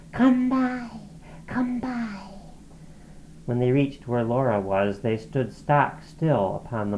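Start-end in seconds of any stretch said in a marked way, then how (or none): 0.1-2.2 high, shrill repeated calling; shrill goblin cry. A narrator's reading. Goblins trooping back, high shrill cry. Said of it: "their shrill, repeated cry".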